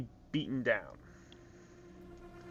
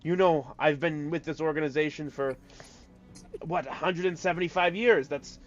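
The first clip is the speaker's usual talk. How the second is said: a raised, eager voice protesting loyalty to the quartermaster; pleading Barb; 4 semitones higher, 5 dB louder than usual. Acted. Barb protests his loyalty to the quartermaster, in a lightly voiced pleading tone. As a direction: sell the innocence a bit higher and louder. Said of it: "and then Barb goes".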